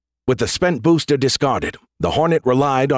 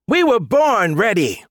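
eager reply; 9 semitones higher, slower than usual. Acted. Missiles answer eagerly.

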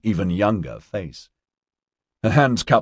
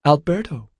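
put-on high-pitched girl's voice; upset girl, pitched high; distraught young student; 9 semitones higher than usual. A narrator's reading. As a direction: answer in a high, unhappy girlish voice. Distraught April answers in girl's voice.

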